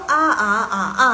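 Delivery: "a, a, a, a" run briskly through four tones; loud short A on each Mandarin tone; quick four tones. Shown as a demonstration. Teacher demonstrating the quick version, four toned A's. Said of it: "itu yang cepatnya".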